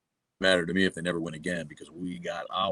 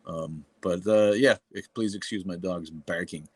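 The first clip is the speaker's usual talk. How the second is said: usual speaking voice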